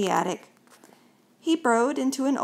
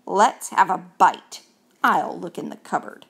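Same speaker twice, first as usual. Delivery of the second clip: eager mouse; 3 semitones lower, 4 dB louder than usual. Acted.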